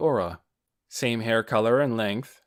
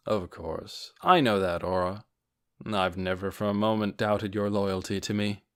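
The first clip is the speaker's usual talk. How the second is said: low, gentle lord voice; kind reassurance; 3 semitones lower than usual. Acted. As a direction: reassure her kindly. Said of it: "gave a kind answer to put her at ease".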